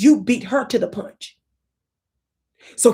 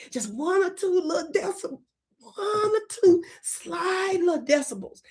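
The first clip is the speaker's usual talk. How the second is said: a little higher; 7 semitones higher than usual. Shown as a demonstration. Comedian demonstrating the slightly raised cry. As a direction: nudge it up a little. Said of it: "just one or two decibels".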